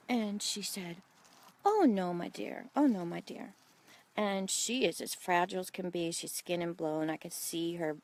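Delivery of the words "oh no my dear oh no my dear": lightly imitated German-European accent. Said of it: "not gonna be able to speak like her".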